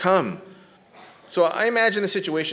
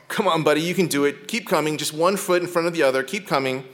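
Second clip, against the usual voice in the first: encouraging dad; 3 semitones higher than usual. Retold or imitated.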